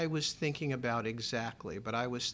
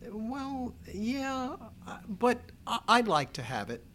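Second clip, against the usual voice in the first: tearful plea; 9 semitones higher than usual. Retold or imitated. Son pleading with his mother for the casket, tearful. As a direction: voice cracking high, near tears.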